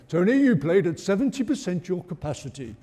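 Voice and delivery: bad impression of a French manager; mock French accent, half laughing. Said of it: "It's a bad impression".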